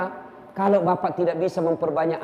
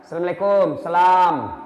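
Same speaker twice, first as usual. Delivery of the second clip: hurried, swallowed greeting; sloppy half-said salam; clipped rushed salam; 2 semitones lower, 3 dB louder than usual. Shown as a demonstration. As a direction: toss off the salam carelessly. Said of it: "Apa Jina bilang?".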